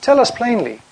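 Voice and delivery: a hint of the crowd pressing Jesus for a straight answer; lightly acted crowd confronting Jesus; demanding crowd.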